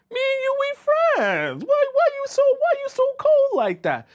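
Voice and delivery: hammed-up wounded suitor begging her to soften; pleading rejected man. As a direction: plead frantically in a squeaky hammed-up falsetto. Acts out men panicking at coldness.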